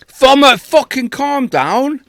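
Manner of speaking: put-on high, slow Irish accent. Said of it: "You do Irish".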